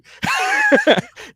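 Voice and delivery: howling laugh at his own story; loud high shriek of laughter. Real, not acted. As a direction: explode into laughter. Cracking up at the story.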